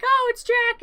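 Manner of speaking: high, loud excited cheer; excited crowd. Retold or imitated. Townsfolk greeting Jack's return, high excited cheer. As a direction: greet him like a returning hero. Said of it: "And everyone's like".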